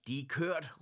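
a loud, startled cry; surprised shout. Acted. Mr Olsen finds the square empty, shouting in surprise. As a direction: blurt it out in shock. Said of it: "råbte hr. Olsen overrasket".

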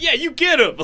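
lightly voiced high henchman; a hint of an egging-on sidekick. Child backing up dad against the teacher, light henchman voice. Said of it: "Like, henchman".

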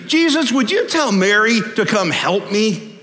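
put-upon, exasperated appeal. Acted. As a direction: complain in exasperation, stretching it out. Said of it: "she looks out there exasperated at Mary".

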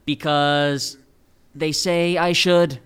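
muffled by a mask; through a face mask. Real, not acted. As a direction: speak through a cloth mask. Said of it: "I'm wearing a mask right now".

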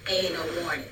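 understated no-nonsense threat; serious warning voice. Shown as a demonstration. Mother imitating her last warning to a child, serious. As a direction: warn lightly, as a stern parent would. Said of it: "Now I'm serious voice".

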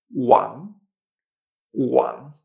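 Wang begun on a U, rising tone; W como U. Shown as a demonstration. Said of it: "esta W es como si fuera una U". (Wang como «uang», con tono ascendente)

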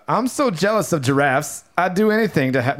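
badly faked British, barely an accent; failed British accent. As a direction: try a British accent and miss it. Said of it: "accent was supposed to be British".

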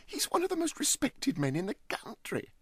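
high, halting stammer. Acted. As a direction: stumble out the protest. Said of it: "stammered Huddle".

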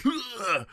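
high strained groan; pained groan. Acted. Player holding stomach wound, pained groan.

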